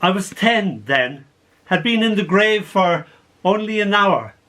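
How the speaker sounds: measured, paused dramatic narration; poem recital. Acted. Poet tells of girl fallen in a grave, measured recital. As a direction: recite it as a remembered tale.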